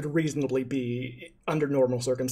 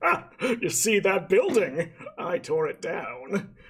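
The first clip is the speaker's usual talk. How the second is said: boasting barbarian; 3 semitones higher, slower than usual. Acted. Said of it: "two very strong men just being like".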